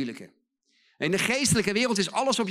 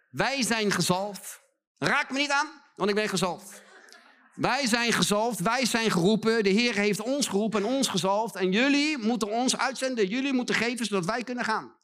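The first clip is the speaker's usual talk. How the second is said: preacher mimics a smug anointed leader, higher-pitched; mocking self-important pastor; 4 semitones higher than usual. Preacher imitating arrogant church leaders to his audience, mocking. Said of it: "In zo'n kerk heb ik gezeten".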